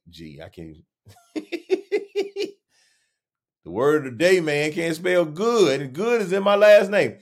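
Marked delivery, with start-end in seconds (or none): 1.3-2.5 high squealing laugh; helpless laugh. Real, not acted. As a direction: crack up at yourself. Fails to spell good.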